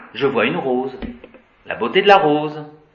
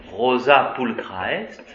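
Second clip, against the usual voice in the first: Parisian Latin accent. Shown as a demonstration. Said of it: "pour ceux qui ont l'accent parisien latin".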